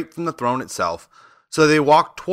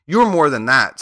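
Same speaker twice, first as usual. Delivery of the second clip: grieved; 4 semitones higher, 5 dB louder than usual. Acted. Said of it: "in a grieved tone".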